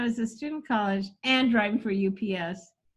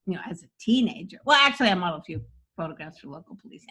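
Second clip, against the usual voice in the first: rushed joke run; faster than usual. Shown as a demonstration. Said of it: "so you get that".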